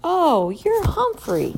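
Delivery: slow, amused man's voice; a janitor gently teasing a hamster; jolly janitor. A narrator's reading. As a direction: tease the hamster kindly, slowly. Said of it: "he said with a laugh".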